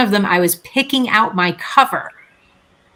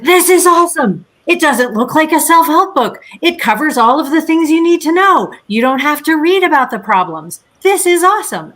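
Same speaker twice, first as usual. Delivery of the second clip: excited publisher; 8 semitones higher than usual. Retold or imitated. Publisher Henry raving about the book, excited high voice. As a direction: gush like a thrilled publisher who's found a gem. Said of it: "he's like".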